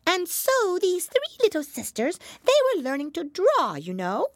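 high, loud dormouse storyteller; squeaky mouse spinning a tale; sleepy snoring dormouse. A narrator's reading.

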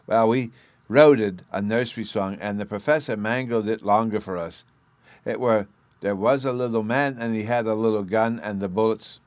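put-on high, eager child voice; little boy Bruno. A narrator's reading. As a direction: chatter like an excited small boy.

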